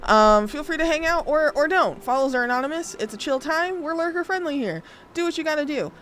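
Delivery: high, bright bubbly streamer greeting; perky welcome to incoming raiders; cute anime streamer. Acted.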